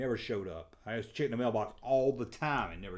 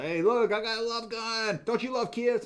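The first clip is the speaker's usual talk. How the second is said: put-on eager kid; 9 semitones higher, 3 dB louder than usual. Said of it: "I only bought it 'cause".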